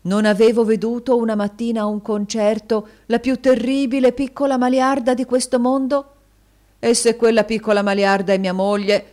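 theatrical adoration of his wife; gushing husband. A narrator's reading. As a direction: lay the compliments on thick. Husband extravagantly flattering his wife.

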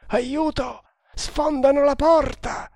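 high-pitched cry for help. A narrator's reading. Nagor cries for help from down the corridor, crying out.

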